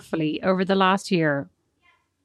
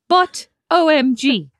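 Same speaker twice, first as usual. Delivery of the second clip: O M G spelled out slow and a bit louder; capital letters; 4 semitones higher, 4 dB louder, much slower than usual. Retold or imitated. Reading Mum's message aloud, slow spelled-out O M G. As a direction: read "O M G" letter by letter, slowly, as if in capitals. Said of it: "Capital letters".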